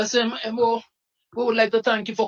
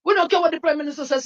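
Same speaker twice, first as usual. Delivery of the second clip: higher, fast, fired-up defiance; defiant fast shout; 5 semitones higher, much faster than usual. Real, not acted. Activist rallying the people against the Prime Minister. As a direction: spit it out quickly like a rallying cry.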